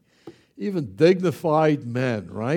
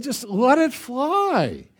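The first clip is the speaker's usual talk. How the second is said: usual speaking voice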